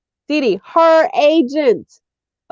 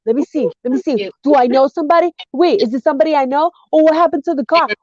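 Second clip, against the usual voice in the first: nosy gawking that builds to higher exclamations; acted rubbernecking; 4 semitones higher, faster than usual. Playing a driver slowing to stare at a car crash, mounting excitement. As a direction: start curious, climb into mock alarm.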